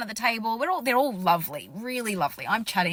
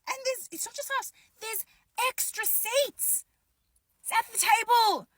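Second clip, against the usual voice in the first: disbelief; 10 semitones higher than usual. Retold or imitated. Continuing shocked realization.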